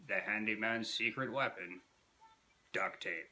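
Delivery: lightly voiced folksy handyman pitch line; a hint of the TV handyman selling tape; Red Green impression. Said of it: "I do a much better red green".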